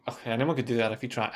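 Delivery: casual, tossed-off remark; throwaway. Acted. Someone belittling an achievement, throwaway. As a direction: toss it away as if it's nothing. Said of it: "it's not like a throwaway".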